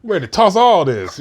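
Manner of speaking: high, exasperated grumbling; worked-up griping about clutter; frustrated complaint. Shown as a demonstration. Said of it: "when I was saying it like that".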